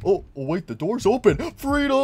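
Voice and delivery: rising delighted voice; mock relief; joyful escape. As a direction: discover the open door. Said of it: "he's like".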